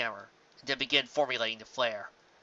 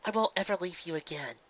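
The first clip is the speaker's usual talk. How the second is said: wavering promise; 4 semitones higher, 5 dB quieter than usual. Acted. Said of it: "wavering of her friend's voice".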